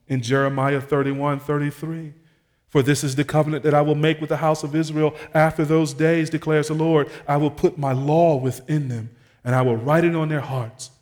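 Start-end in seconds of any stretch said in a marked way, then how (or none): 2.7-10.9 raised pulpit reading voice; preacher declaring a verse to the congregation; scripture proclamation. Real, not acted. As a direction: read the promise out firmly, a little louder. Preacher reads scripture aloud.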